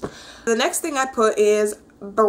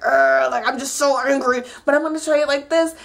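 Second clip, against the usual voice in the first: lightly voiced strained calm; mock Kenny forcing himself to stay composed; Kenny holding anger; 3 semitones higher than usual. Imitating Kenny keeping his anger in to Lee, half-hearted strain. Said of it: "trying to be so composed".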